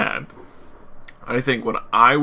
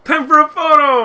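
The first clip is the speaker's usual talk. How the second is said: high, loud bright call; cheery announcement; 8 dB louder than usual. Pretend. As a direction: chirp it like a tour guide. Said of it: "And I'll be like".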